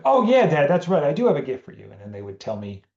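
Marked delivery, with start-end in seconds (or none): 0.0-1.9 put-on high, loud kid realisation; light up as a child who just remembered; child remembering brightly. A kid telling dad at bedtime, sudden eager recall. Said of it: "And they'll be".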